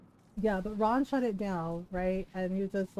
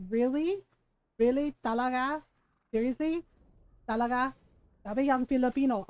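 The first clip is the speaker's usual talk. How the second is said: pointed, higher-pitched disbelieving questions; mock incredulity; 3 semitones higher than usual. Streamer reacting to coworker doubting a wife is Filipino, incredulous. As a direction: throw each question back in disbelief.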